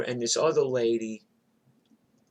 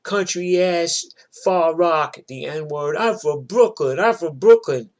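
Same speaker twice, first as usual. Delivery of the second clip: mock scream, louder and higher; screaming brawler; 5 semitones higher, 6 dB louder than usual. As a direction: imitate the girl yelling back at the neighbor. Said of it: "the girl just screams at Carmen".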